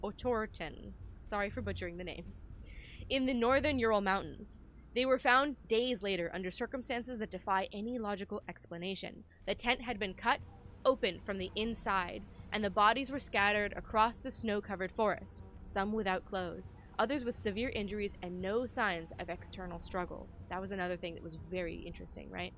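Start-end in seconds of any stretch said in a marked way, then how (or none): 0.0-0.9 measured, emphatic narration of a report; document read-aloud. Acted. Player reading the game's note to viewers, documentary narration. 3.1-20.3 measured, emphatic narration of a report; document read-aloud. Acted. Player reading the game's note to viewers, documentary narration.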